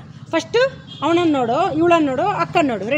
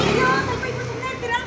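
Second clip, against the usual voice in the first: fast exasperated line; 5 semitones higher, faster than usual. Shown as a demonstration. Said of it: "ಸಾಮಾನ್ಯ fast ಆಗಿ ಹೇಳು".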